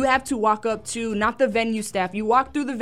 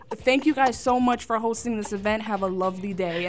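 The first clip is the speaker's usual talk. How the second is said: princess politeness. Retold or imitated. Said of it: "like a princess".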